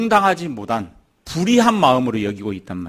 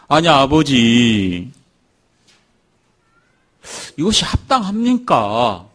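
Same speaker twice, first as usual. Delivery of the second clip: indignant protest; 4 dB louder, slower than usual. Acted. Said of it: "막 분을 내면서".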